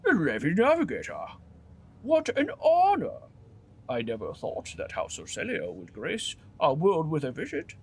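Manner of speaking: a posh governor suddenly thrilled; delighted governor. Acted. Governor greeting the Navigator Cassia with delight, posh. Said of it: "expression changes drastically when he sees Cassia".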